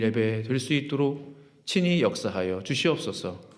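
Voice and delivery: sustained, pleading pulpit prayer; earnest prayer. Real, not acted. Pastor prays to God before preaching, earnest prayer. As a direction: pray earnestly, stretching the phrase endings.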